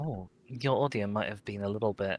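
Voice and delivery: glitchy robotic audio; distorted robot-like mic. Real, not acted. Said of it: "very robot voice".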